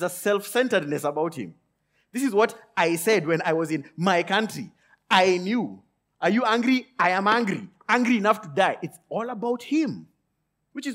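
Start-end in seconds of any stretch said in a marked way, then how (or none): 2.1-8.8 louder, a touch of indignant complaint; mock angry Jonah. Preacher voicing Jonah's complaint to God, mildly angry. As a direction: voice Jonah's sulky anger at God, lightly.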